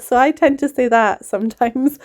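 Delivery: normal talking voice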